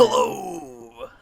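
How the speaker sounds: very high, loud pitchman hello; used car salesman yell. Acted. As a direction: belt it like a huckster. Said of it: "You sound like a used car salesman".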